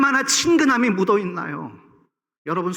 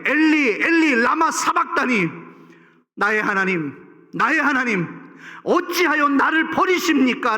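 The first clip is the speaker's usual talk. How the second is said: anguished cry; 4 semitones higher than usual. Acted. Voicing Jesus's cry on cross.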